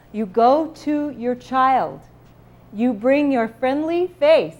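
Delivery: slow demo. Shown as a demonstration. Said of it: "looks like this".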